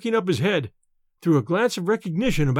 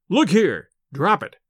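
raised voice, urging him to stop; firm cry; 3 dB louder than usual. Acted. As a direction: call out sharply to snap him out of it. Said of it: "cried Smith".

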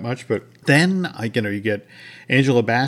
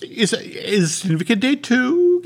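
much higher, louder and slower; excited high voice; 12 semitones higher, 4 dB louder than usual. Real, not acted. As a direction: hype it up, grasping for a save. Excited save about 101.

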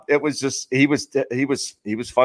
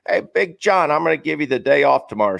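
lightly voiced skipper, pitched up; imitated manager; 4 semitones higher than usual. Manager giving Big John a day off, lightly imitated. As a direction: call out to a player like the skipper. Acting manager addressing a player.

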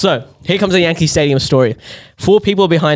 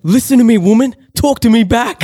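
high, raised mock tirade; aggressive; 9 semitones higher than usual. Imitating Sam going off at the woman, aggressive. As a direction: imitate a heckler demanding an answer. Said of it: "So aggressive".

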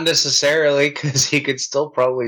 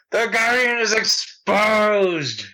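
dramatic gasp; 6 semitones higher, slower than usual. Pretend. Gasping dramatic exclamation.

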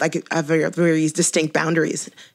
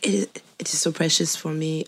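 quiet-voiced random French accent; 4 dB quieter than usual. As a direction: imitate them with a made-up French accent. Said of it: "doing a random French accent".

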